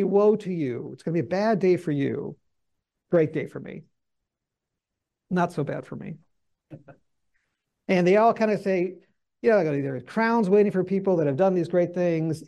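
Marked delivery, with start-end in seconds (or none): 0.0-6.2 mock smug commentator tone. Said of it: "All of them say, ... here's my point of the, the tone".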